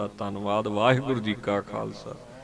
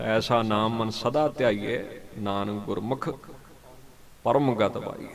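measured devotional reciting of gurbani verses; scripture recitation. Acted. Preacher reciting gurbani to the congregation, devotional intoning. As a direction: intone the verses steadily, like a prayer.

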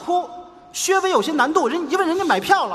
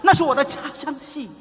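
running out of puff after an outburst; indignant but losing steam; short of breath. Acted. Comic spent from defending his hometown opera, short of breath. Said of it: "气力不足啊这说话".

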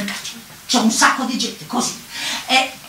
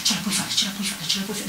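concentrated self-encouragement; 3 semitones lower, 5 dB quieter, faster than usual. Retold or imitated. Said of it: "mi concentro bene, dico".

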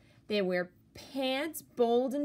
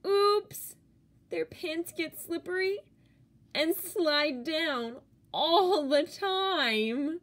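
oops; 6 semitones higher, 4 dB louder than usual. A narrator's reading. Slippery pants slide down.

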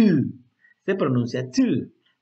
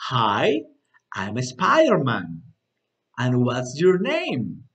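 slightly more fluid demo; 4 semitones lower, much slower than usual. Shown as a demonstration. Teacher modelling the greeting for repetition, slow phrases. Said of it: "un poquito más fluido".

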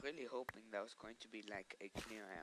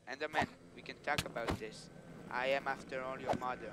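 louder, hammed-up pleading; mock negotiation; 6 dB louder than usual. To the Enderman, a loud hammed-up mock plea. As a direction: pretend to talk the Enderman down.

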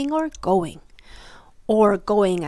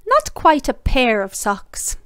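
slow, louder, stressed not; emphatic correction; 3 semitones higher, 7 dB louder, slower than usual. A narrator's reading. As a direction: lean on not, slowly.

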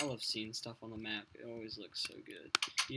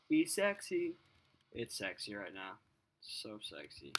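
mock sultry; 3 semitones lower than usual. Sultry falling voice.

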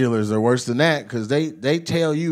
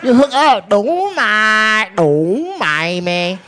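high-pitched mock Asian dealer accent; imitated Asian dealer, pitched up; 5 semitones higher, 3 dB louder, much slower than usual. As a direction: advise the player in a comic Asian dealer accent. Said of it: "I perfected that voice".

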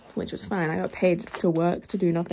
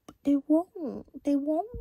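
mocking a girlfriend's whiny baby voice, higher; squeaky cutesy whine, put on; 8 semitones higher, slower than usual. Vlogger mimicking the girlfriend pleading to pet the dogs. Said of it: "doing a baby voice".

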